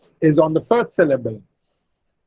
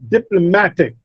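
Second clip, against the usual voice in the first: "diplomatic" said dip-lo-MAT-ic; stress on third syllable. Shown as a demonstration. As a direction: lean on MA in "diplomatic". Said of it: "the third syllable receives the stress".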